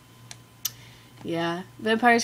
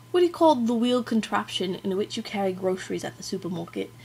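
amateur British accent, self-consciously put on; attempted British accent. Shown as a demonstration. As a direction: have a shaky go at a British accent. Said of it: "attempt a British accent".

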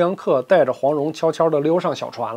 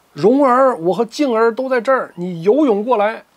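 calling from afar; 4 semitones higher than usual. Acted. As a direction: shout to her over the water. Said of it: "远远的就听到他说".

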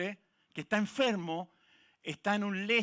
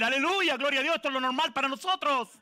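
bright raised hallelujah; higher, louder joyful hallelujah; joyful praise; 5 semitones higher, 4 dB louder than usual. Retold or imitated. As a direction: celebrate as if it's normal. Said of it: "En vez de decir".

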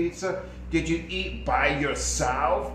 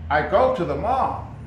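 louder, rising echo of the mistake; puzzled echo; 3 semitones higher, 7 dB louder than usual. Shown as a demonstration. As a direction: repeat it back as if confused. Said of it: "You're at the mall now?".

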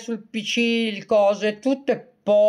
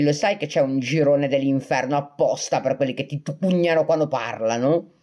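serio; 4 semitones lower than usual. Retold or imitated. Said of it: "l'ho guardato serio in faccia".

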